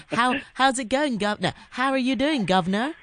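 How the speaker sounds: mock Cockney accent. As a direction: play a cheeky Cockney greeting a guest. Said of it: "I won't even specify which accent I'm doing".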